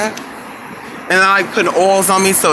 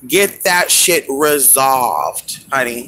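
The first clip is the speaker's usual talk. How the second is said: slow emphatic advice; 4 semitones lower, much slower than usual. Real, not acted. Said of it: "Honestly, you guys".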